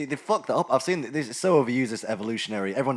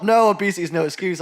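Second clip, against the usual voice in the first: louder, stern slogan retort; loud mock slogan; 5 semitones higher, 8 dB louder than usual.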